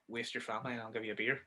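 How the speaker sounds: hushed mock Moe whisper. Moe the barman tempting Homer, hushed whisper. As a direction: murmur it like a secret temptation. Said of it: "whispers to him".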